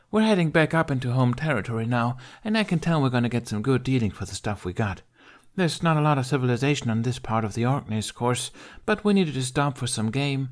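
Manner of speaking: put-on high, bold girl's voice; cocky Viking girl. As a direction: brag like a tough young thief. Kamikaze voiced by narrator.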